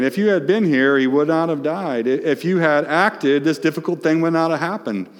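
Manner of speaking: high, loud, pleading cry; Mary crying out to Jesus, anguished and loud; anguished plea. Retold or imitated. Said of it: "Mary is saying".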